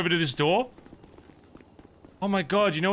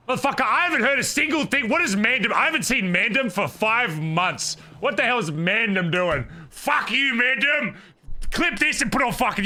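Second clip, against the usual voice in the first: heated rant; 3 semitones higher than usual. Real, not acted. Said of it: "Give me something else to rant about".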